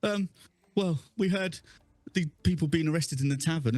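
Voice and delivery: a shaken bystander blurting out what he saw; flustered bystander. Acted. Bystander panics, telling a stranger the news. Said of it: "He's like".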